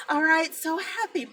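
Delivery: high laugh breaking into tears; laughing through tears. Real, not acted. Ending her Mother's Day live, laughing through tears. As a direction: laugh and cry at once.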